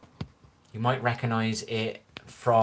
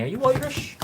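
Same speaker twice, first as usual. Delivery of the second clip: much higher voice, sharply rising question; imitated girl's question; 14 semitones higher than usual. Retelling a girl's question in the pub, imitated high voice. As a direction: imitate a curious girl, pitch shooting up. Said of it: "A girl one night said to me".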